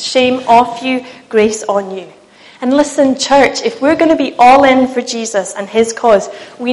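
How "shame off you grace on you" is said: slow, assured pronouncement; Jesus's stronger voice. Acted. Jesus answering the accuser with grace, slow firm declaration. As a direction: declare it slowly and firmly. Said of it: "his voice is truer and stronger".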